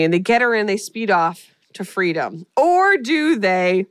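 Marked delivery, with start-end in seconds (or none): 2.6-3.8 slow, louder dramatic question; ominous tease. Pretend. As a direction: drag it out like a horror trailer. Teasing twist in movie recap.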